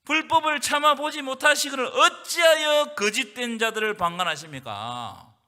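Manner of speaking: slow, loud pulpit proclamation; 강하게 외치는 설교; preaching at full force. Acted. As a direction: thunder the verse out slowly.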